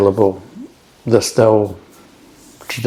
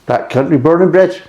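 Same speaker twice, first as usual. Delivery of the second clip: broad Black Country accent, pitched higher; 7 semitones higher than usual. Shown as a demonstration. Beer reviewer hamming up a Black Country accent. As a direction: lay the Black Country accent on thick, proudly. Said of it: "It should be Orchid Descent".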